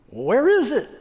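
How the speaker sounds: high, loud mock bewilderment; scornful Texan. Rancher mocking the presidential suite, high loud mock bewilderment. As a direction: act baffled at the tiny suite. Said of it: "He said".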